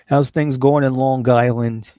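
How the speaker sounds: lightly put-on Long Island accent; a hint of playful New York accent. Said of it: "I've always liked the New York accent".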